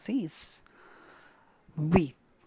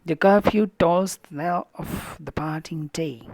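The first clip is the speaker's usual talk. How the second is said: "The curfew tolls the knell of the parting day" in weak-strong beats, louder at the start; iambic stress; 5 dB louder than usual. Shown as a demonstration. Teacher reading an example of iambic meter, "The curfew tolls the knell of the parting day" in weak-strong stress. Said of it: "unstressed syllable is followed by stressed syllable".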